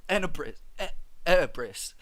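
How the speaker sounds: "Enebris" in mock British, initial T of Tenebris dropped. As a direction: try "Enebris" haltingly, swallowing the consonants. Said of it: "What if Tenebris was British?".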